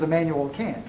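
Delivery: pun on Kant, said like "can't". Retold or imitated. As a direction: say Kant with the flat a of "ant". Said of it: "he referred to him as".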